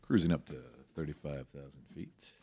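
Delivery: cabin PA voice; captain's PA announcement. Acted. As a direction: announce it over the plane intercom. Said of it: "this is your captain speaking".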